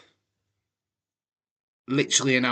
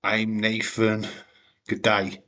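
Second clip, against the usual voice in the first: light mock Australian accent, slow; a quick Aussie accent impression. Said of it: "Australian accent".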